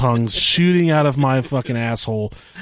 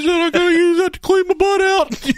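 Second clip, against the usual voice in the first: much higher, louder mom voice; mom's voice; 5 dB louder than usual. Retold or imitated. Mom asking her son if he drank it, high and loud. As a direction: play the alarmed mother. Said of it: "She said".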